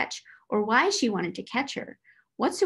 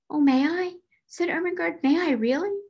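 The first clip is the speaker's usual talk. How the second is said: high, thrilled asking; eager delight; 8 semitones higher, 3 dB louder than usual. Acted. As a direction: burst out with eager joy. Ermengarde thrilled to hold doll.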